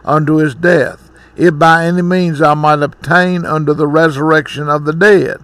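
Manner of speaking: measured, solemn Bible reading; scripture reading. Acted. Preacher reading the Bible passage to the congregation, measured and solemn. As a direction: read the verses like a preacher before his sermon.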